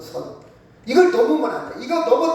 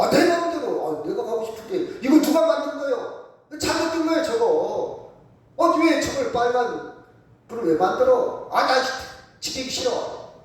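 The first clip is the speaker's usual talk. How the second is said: higher-pitched acted protest; mock defiance; 4 semitones higher than usual. Hurried driver refuses to obey red light, mock indignant grumbling. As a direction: play a stubborn driver objecting to the rules.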